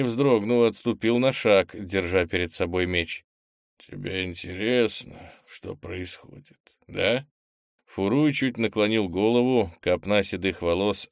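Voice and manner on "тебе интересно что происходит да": slow, soft alien taunt. Acted. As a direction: tease the boy like a monster. Possessed old man taunting.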